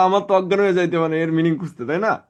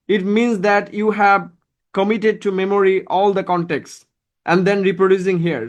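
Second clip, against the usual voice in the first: very slow, measured formal English; much slower than usual. Shown as a demonstration. Teacher explains the speaking test to students in slow formal English. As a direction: lay each word down slowly, like a formal speech. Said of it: "slow formal English explanation".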